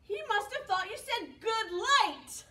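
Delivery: giggled good light; laughing. Pretend. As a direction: laugh through the words. Retelling misheard phrase, laughing.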